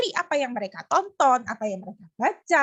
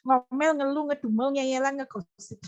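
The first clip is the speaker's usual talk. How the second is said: amused repetition. Real, not acted. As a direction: list breaking into laughter. Repeats list, breaking into laughter.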